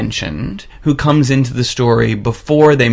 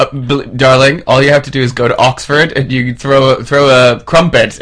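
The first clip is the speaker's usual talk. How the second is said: a touch of posh Oxford English; playful posh British voice; mock posh British; 3 dB louder than usual. Mocking posh accent reply.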